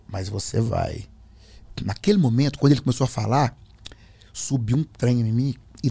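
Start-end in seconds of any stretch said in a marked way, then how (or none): 0.1-1.0 low, calm insistence; imitated demonic certainty; changed, possessed voice. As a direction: answer deep and implacable. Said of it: "mudou a voz".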